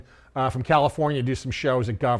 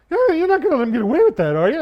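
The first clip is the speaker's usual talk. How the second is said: egging on; 11 semitones higher, 5 dB louder, faster than usual. Retold or imitated. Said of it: "He goes".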